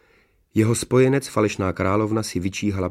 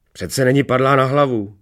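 high, loud squawk; cawing, indignant queen; croaking false queen; 5 semitones higher, 5 dB louder than usual. A narrator's reading. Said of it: "zaskřehotala falešná královna".

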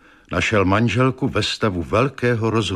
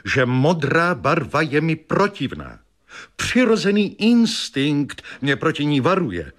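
wife's voice; 6 semitones higher than usual. Acted. Wife voiced in story.

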